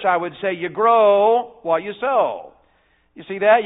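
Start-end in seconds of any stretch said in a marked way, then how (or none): 0.1-2.5 put-on slow and simple, like teaching little kids; junior church voice. Shown as a demonstration. Preacher to children in junior church, slow and simple. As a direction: spell it out slowly for the children. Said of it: "If I were preaching to you all in junior church".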